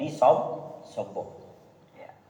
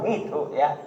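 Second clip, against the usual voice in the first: ordinary talk, nothing marked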